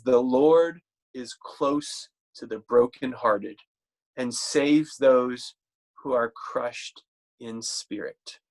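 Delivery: slow, measured reading of a verse; scripture reading. Acted. Preacher reading Psalm to congregation, slow and measured. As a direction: lay the verse out slowly for the congregation.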